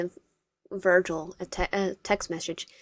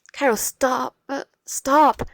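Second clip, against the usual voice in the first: higher, louder urgent stop; 7 semitones higher, 7 dB louder, slower than usual. Acted. Wyatt shouting at Cairo to stop begging, higher and loud. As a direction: cut him off, alarmed.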